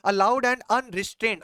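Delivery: very slow, word by word; slow dictation. Shown as a demonstration. Teacher reading the definition aloud to students, very slowly. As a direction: read each word slowly for copying. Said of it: "क्या लिखा".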